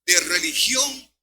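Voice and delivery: slow, loud, drawn-out preaching list; preaching shout. Real, not acted. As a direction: hammer each place out slowly. Predica con fuerza la lista. (gritando despacio cada lugar)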